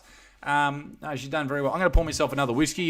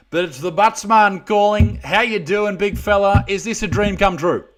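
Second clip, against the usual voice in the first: hyped self-announcement; 6 semitones higher, 5 dB louder than usual. Acted. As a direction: sell the big surprise to the fan. Host reveals himself to fan.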